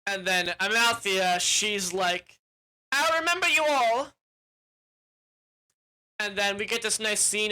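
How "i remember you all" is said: lightly voiced heroine. Unicorn speaks at the end.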